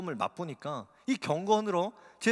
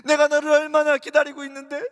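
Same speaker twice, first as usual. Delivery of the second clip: voice of Jesus; 10 semitones higher, 12 dB louder than usual. Retold or imitated. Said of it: "주님이 이렇게 말씀하셨어요".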